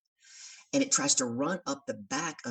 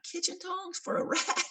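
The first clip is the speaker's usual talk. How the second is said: high, slow disbelieving question; incredulous; slower than usual. Retold or imitated. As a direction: ask it like he's lost his mind. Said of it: "I'm like".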